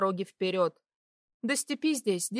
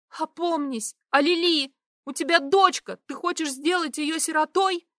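urgent plea; 7 semitones higher, 4 dB louder than usual. A narrator's reading. Stefa reasoning desperately.

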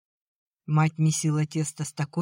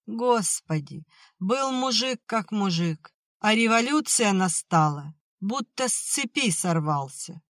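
wailing lament; 6 semitones higher than usual. Acted. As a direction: wail it to the heavens. Mother laments husband's ruin.

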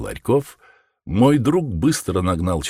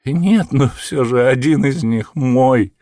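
whining; 6 semitones higher, 4 dB louder than usual. A narrator's reading. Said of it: "захныкал человек".

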